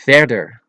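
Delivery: Verder with open eh, then uh; Dutch E sounds. Shown as a demonstration. Teacher giving an example, Verder with eh then uh. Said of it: "listen closely at the pronunciation".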